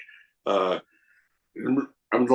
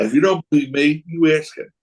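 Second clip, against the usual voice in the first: pushed out louder and higher; louder first take; 5 semitones higher, 4 dB louder than usual. Shown as a demonstration. Joking with the host about how smart Raven is, louder. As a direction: say it out loud like a dare. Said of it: "No, I said".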